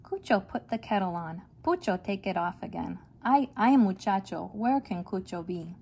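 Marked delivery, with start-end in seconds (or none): 3.2-5.8 exasperated cry. Acted. Mother calling for her missing boys, exasperated and loud. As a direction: throw up your hands at the naughty boys.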